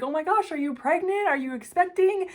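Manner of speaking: high, bright surprise at a stranger's belly; surprised gasp. Retold or imitated. Church visitor gushing at her, high surprised question. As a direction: gush like you've spotted a pregnancy.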